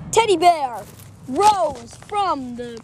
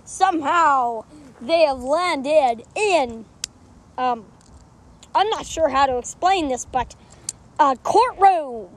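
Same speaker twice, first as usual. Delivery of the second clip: a hint of an old Western narrator setting the scene; Wild West narrator. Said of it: "from being Australian to being from the Wild West".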